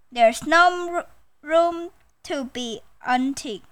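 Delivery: mildly snappy crocodile; lightly acted snap of complaint; a touch of crocodile crossness. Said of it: "snapped Crocodile".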